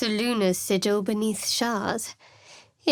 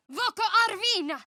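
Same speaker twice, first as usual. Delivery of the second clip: much higher and fast, urgent call; spell incantation; 11 semitones higher, faster than usual. Acted. Cleric casting quickly in battle, urgent cry. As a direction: snap the spell out in a rush.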